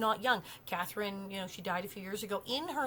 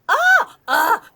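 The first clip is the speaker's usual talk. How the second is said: cry; 12 semitones higher, 16 dB louder than usual. Real, not acted. Sudden cry out.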